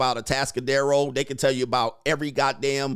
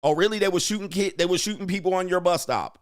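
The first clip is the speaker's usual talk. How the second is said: higher-pitched feigned amazement; mock disbelief; 4 semitones higher than usual. Host humoring a bragger's bus stop story, mock disbelief. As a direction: play along, acting amazed at the tall tale.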